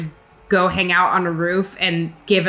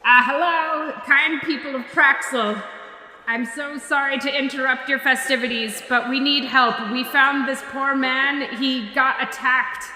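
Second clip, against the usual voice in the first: booming plea; 6 semitones higher, 3 dB quieter than usual. Acted. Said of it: "make her voice boom extra loud".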